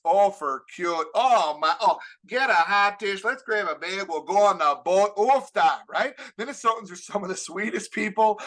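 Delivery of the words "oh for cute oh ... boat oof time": put-on light Minnesota accent, chirpy. Minnesotan neighbor being nice to visitors, mild Minnesota accent. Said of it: "something called Minnesota Nice".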